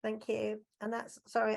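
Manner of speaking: holding back a sneeze, words cut short; about to sneeze. Real, not acted. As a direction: speak through an oncoming sneeze. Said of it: "I'm gonna sneeze again".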